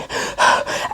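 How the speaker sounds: heavy sigh through the mouth; short out-of-breath sigh; breathy sigh. Real, not acted. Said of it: "out of breath".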